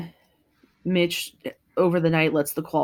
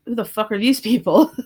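mock outburst; 5 semitones higher, 6 dB louder than usual. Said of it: "is like".

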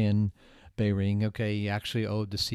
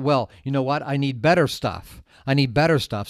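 louder, insistent mock wanting; imitated eager craving; 2 semitones higher, 7 dB louder than usual. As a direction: act out someone greedy for more. Acts out Ken's craving for more.

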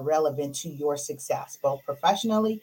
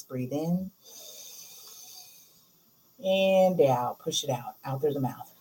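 guided breathing. Shown as a demonstration. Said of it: "leads breathing exercise".

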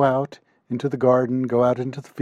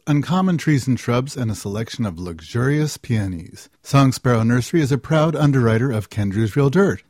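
lightly punched-up underwriter announcement; sponsor read; 5 dB louder than usual. Acted. Host thanks the nursery underwriting the show, sponsor read. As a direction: read out the sponsor credit with emphatic, spelled-out web address.

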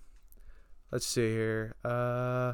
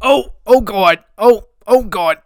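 put-on panicky old man. Same panicky character.

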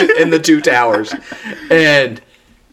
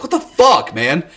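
retold angry yell; 3 semitones higher than usual. Troy yelling at Farmer over the kick, imitated outrage. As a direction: protest indignantly, imitating an upset friend. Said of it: "Troy yelled at him".

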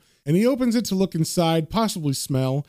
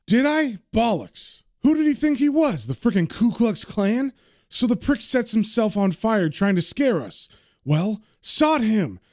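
higher-pitched scornful retort; indignant scorn; 5 semitones higher than usual. Acted. George dismissing helping the man on fire, indignant. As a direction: scoff at the very idea.

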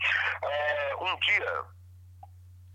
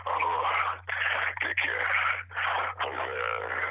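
Darth Vader voice; 11 semitones lower, slower than usual. Retold or imitated. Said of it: "Atendi com voz de Darth Vader mesmo".

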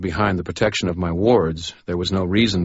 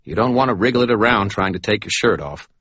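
fussy medic, a touch higher; lightly voiced Butters; 4 semitones higher, 4 dB louder than usual. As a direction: explain it like a fretful doctor. Butters explains the injury.

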